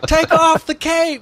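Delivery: high, drawn-out pleading shout; hammed-up exasperation; mock exasperated yell. Acting exasperated people arguing with Batman.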